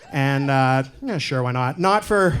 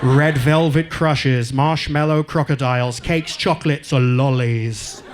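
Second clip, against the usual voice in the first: put-on slow, louder Australian accent, hypnotic pacing; Australian hypnotist; 3 semitones lower, 4 dB louder, slower than usual. Australian hypnotist on a weight loss track, slow and louder. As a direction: drawl the list like an Australian hypnotist. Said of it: "the hypnotist was Australian".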